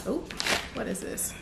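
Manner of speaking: breathy whispered question; whispered wonder. Real, not acted. YouTuber opening a fan parcel, curious whisper. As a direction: whisper it as you peek inside.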